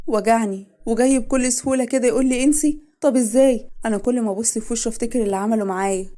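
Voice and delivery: high, loud tearful outburst; crying. Acted. Wife crying to family about her husband's betrayal, tearful outburst. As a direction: sob out the hurt. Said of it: "وعشق كانت عماله تعيط".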